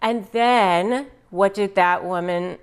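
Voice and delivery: ordinary talk, nothing marked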